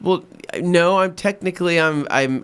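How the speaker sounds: high, halting, awkward reply; stumbling polite explanation, mimicked; imitated hesitation. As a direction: play a chef carefully correcting a customer. Sushi chef caught by awkward question.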